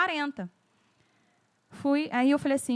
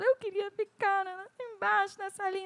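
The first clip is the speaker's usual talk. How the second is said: put-on little girl; 7 semitones higher, 4 dB quieter than usual. Crying daughter voiced in story.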